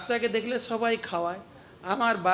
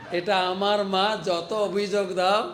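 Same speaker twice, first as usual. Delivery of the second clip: laughing; 4 dB louder than usual. Acted. Kanai clings to mother, laughing.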